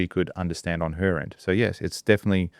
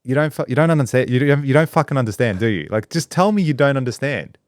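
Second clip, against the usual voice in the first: high, exasperated outburst at the assistant; 6 semitones higher than usual. Retold or imitated. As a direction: let the frustration spill over, pitched up. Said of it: "I'm like".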